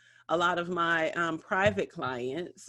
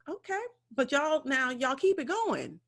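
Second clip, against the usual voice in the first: sassy warning; 4 semitones higher than usual. Retold or imitated. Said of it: "I'm like".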